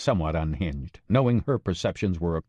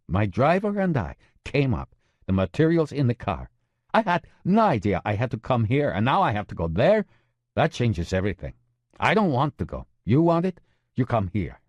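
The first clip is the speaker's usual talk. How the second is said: Maria's complaining voice; 4 semitones higher than usual. Acted.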